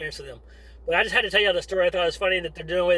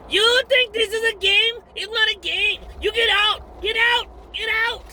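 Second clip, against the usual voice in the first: high-pitched barking scream, much higher and louder; drill sergeant yell; 4 dB louder, slower than usual. Retold or imitated. Drill sergeant screaming at scared recruits to get out, high bellowing yell. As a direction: blast them off the truck like a furious drill sergeant.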